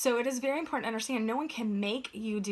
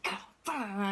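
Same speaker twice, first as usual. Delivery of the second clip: mocking grumble. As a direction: toss off the complaint like meaningless noise. Mocking people griping after road rage.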